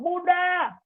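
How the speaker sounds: imitating a child finally yelling Bunda. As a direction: scream for mom at last. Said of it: "sampai teriak anak".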